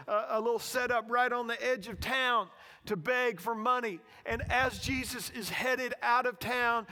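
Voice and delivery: loud preacher telling a story; forceful sermon storytelling. Real, not acted. Preacher introducing blind Bartimaeus to congregation, forceful storytelling. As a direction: tell it loudly to the congregation.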